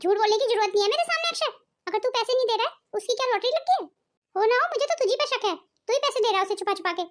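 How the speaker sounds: scolding mother. Acted. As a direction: grill the son like a suspicious mother. Mother scolds son about money.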